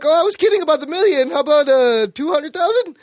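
high, quick nervous bargaining; slimy guy backpedalling fast; lightly voiced sleazeball; weaselly haggling. Photographer bargaining with gangsters.

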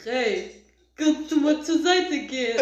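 lightly imitated Russian-Polish accent, amused; hint of a Russian-Polish accent, laughter leaking in. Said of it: "haut er da so seine russisch-polnischen".

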